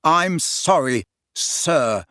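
"sir" set apart after a pause; slow apology, then a deliberate "sir"; stress on sir. A narrator's reading. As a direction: land pointedly on "sir". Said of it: "emphasizing the last word".

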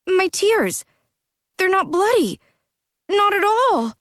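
high, overjoyed and trembling; laugh-cry with relief; joyful tears. Acted. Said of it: "shining with joy".

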